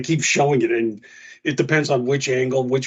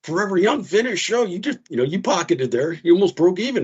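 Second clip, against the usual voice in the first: quoting himself; 7 semitones higher than usual. Retold or imitated. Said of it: "I was like".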